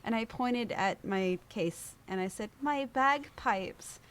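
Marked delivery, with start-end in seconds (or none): 2.6-4.0 high, slow mock wail; acted heartbroken cry; retold tearful lament. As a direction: draw it out as an imitated lament. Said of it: "they saw that I was crying".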